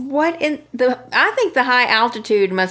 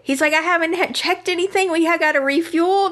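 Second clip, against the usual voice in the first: mildly flustered, higher-pitched pilot; protesting pilot; 6 semitones higher than usual. Retold or imitated. Pilot tells hurried passenger he just landed, mildly flustered protest. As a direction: object in a higher voice, lightly acting a put-upon pilot.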